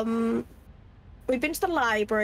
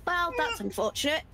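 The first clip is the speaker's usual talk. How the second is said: understated dying gentleman; 3 semitones higher, 5 dB quieter than usual. Acted. Shot character speaks calmly.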